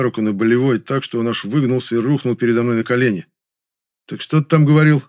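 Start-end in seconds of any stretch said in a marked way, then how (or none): 4.1-5.0 gentle through teeth. A narrator's reading. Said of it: "ласково улыбаясь сквозь зубы".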